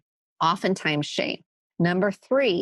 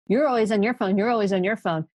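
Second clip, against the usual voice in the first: mock childish bickering, slightly raised pitch; squabbling children; 3 semitones higher, faster than usual. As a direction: lightly imitate kids trading the same accusation. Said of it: "now I have two children".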